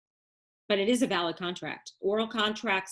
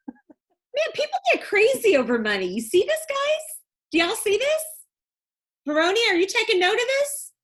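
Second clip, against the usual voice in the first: much higher and louder, calling out to the class; mock alarm; 13 semitones higher, 6 dB louder than usual. Real, not acted. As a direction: play it up as if truly scared of the student.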